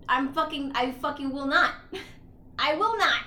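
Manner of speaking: retold outburst, punched out loud; indignant refusal. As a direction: act out a stubborn, heated refusal. Retelling character's angry refusal.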